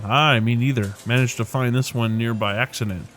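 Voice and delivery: lightly voiced lilting Irish accent; a hint of a lyrical Dublin accent. Rainbow chatting by her arcade cabinet, light Irish accent. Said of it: "lyrical accent to her voice".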